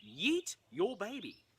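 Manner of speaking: put-on slow, drawn-out "Yeet your baby"; mock command. Performer rephrasing the cue as a joke order, slow. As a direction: hand down an absurd decree with mock gravity. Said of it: "I am saying".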